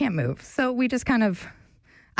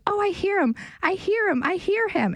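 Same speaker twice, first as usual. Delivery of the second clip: excited relieved owner; 11 semitones higher than usual. Retold or imitated. Owner hears her lost bird.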